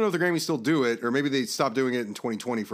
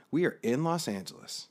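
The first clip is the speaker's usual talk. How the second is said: retold exasperation. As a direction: spell it out word by word, exasperated. Retold exasperation at bored companions.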